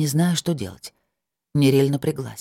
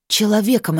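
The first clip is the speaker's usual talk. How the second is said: hissed; 6 semitones higher, 3 dB louder than usual. A narrator's reading. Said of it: "прошипела она".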